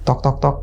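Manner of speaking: soft spoken tok tok sounds; mimicking a quiet knock on the door at night; imitated knocking.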